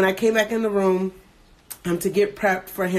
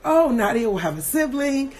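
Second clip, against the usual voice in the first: retold excitement; 6 semitones higher than usual. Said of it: "I was really excited".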